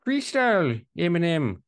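high put-on Goldmember drawl. Joking about Dutch accents, hammed-up high Goldmember voice. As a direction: ham it up like Goldmember. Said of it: "trying to do Goldmember voice".

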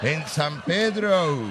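very slow, "Pedro" swelling into English "ou"; mock English. Shown as a demonstration. Host correcting Eva's intonation, drawn-out English accent. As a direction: exaggerate the gringo intonation on San Pedro. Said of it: "la entonación".

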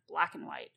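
"black and white" blurred, "and" shrunk to "n"; lazy run-together "black and white"; rolled together. Shown as a demonstration. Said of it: "dropping the A and the D off of the and".

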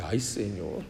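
soft, low sigh of "Ay, Señor"; hushed dismay. Retold or imitated. Preacher recalling his own shock, soft and low. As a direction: breathe it out low in sudden realisation.

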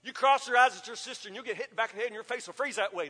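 fast threatening parent rant; hint of a scolding parent, fast; mock scolding parent. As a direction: rattle off a parent's scare threats. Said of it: "Did you ever have that parent".

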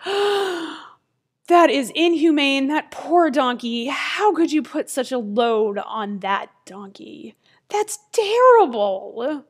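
hammed-up horrified disapproval; appalled. Passersby pity the overloaded donkey, appalled and theatrical.

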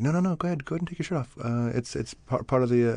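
high pushy casting voice; casting director pressing him to strip; quoting casting people. Retold or imitated. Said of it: "I'm like".

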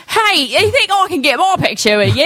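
high, eager fan voice asking for a photo; starstruck ask. Retold or imitated. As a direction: pitch up like a giddy fan. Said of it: "and I was just like".

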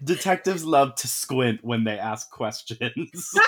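laughing through the words; fighting back giggles; trying not to laugh. Real, not acted.

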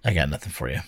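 glitchy bitcrushed digital voice; robotic, broken-up call audio. Real, not acted. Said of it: "your voice is all robotic again".

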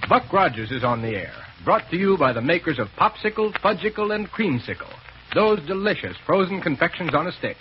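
brisk vintage radio ad read; old radio announcer. Acted. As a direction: sell it like a forties announcer. Reads sponsor message on air.

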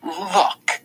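high sarcastic bitter look look; mock wonder soaked in bitterness; bitter sarcastic exclamation; dripping bitterness. A narrator's reading. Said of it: "her voice dripping bitterness".

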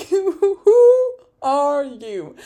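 loud, high, drawn-out who are you; mock outrage. To Lance over his parking lot threat, a loud incredulous shout. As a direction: shout it in disbelief, half laughing. Mocking disbelief.

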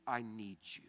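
hushed, breathy-free whisper of need; whispered plea. Acted. Pastor voicing a humble prayer to God, whispered.

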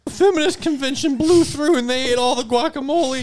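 high, jittery waiter voice; nervous waiter. Acted. Waiter answering the party's call, high and jumpy. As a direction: squeak it out like a nervous little waiter.

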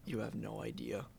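hushed conspiratorial whisper. Pretend. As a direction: whisper it like a secret. Whispered aside about lazy names.

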